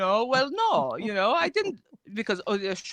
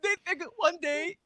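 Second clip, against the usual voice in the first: raised, excited storyteller voice as a mock prophet; lightly voiced prophet gossiping to Aisha; mock prophet skit; 5 semitones higher than usual. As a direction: play the gossiping prophet, wide-eyed and incredulous. Mock skit voicing Muhammad to Aisha.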